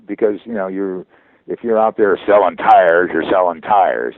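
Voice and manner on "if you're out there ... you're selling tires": loud, punchy tire-selling delivery; hard-sell tire pitch. Shown as a demonstration. Voice actor showing how tires get sold, loud and forceful. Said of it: "you gotta kinda soften it up".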